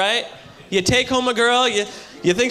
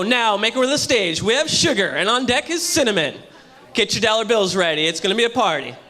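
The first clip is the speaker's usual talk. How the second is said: strip club DJ; 3 semitones lower than usual. Acted. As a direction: introduce dancers like a club DJ on the mic. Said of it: "you hear the D J get on the mic and go".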